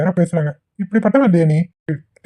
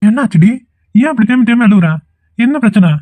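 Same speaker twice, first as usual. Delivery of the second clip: alarmed; 5 semitones higher than usual. Acted. Boyfriend alarmed by crying girlfriend.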